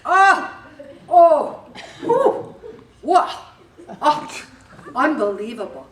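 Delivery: high, loud exaggerated oohs and wows, listening hard; hammed-up astonished listener noises; sympathetic gasps. Shown as a demonstration. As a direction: gasp and marvel at every word they say. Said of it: "And then you just do this".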